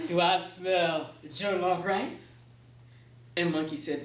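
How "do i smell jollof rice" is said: Anansi voice. Acted. Anansi asks Monkey for food.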